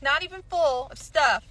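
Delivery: exasperated outburst. Real, not acted. Ranting about high grocery prices.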